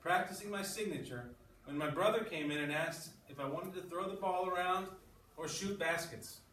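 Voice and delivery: reading a story aloud to the class; steady read-aloud narration. Acted.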